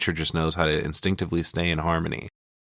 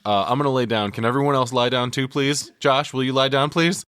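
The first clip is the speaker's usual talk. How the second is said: rising higher, pleading whine; anxious pleading; 7 semitones higher than usual. Retold or imitated. Panicking Mark begging Josh to lie down, higher whine. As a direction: beg everyone to lie down with you. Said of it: "He's like".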